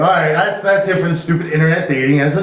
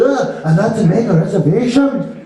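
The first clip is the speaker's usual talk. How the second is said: put-on Irish caller voice; Irish accent; 2 semitones higher than usual. Limo customer making a reservation, Irish accent. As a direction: do an Irishman phoning in. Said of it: "he has this Irish accent".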